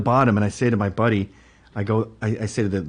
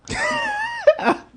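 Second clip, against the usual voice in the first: high squeal of laughter. Real, not acted. Laughing at absurd threat.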